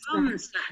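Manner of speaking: "Khamsah" opening on the throaty kha; Arabic kha. Shown as a demonstration. Teacher models number five, throaty kha in "Khamsah". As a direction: say "Khamsah" with a rasped Arabic kh, not a k. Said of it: "dengan huruf kha".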